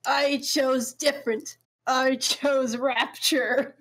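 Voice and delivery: slow, deliberate Bioshock-style declaration; Mister Krabs voice. Retold or imitated. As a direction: draw out each word like a grim villain. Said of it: "Mister Krabs being like".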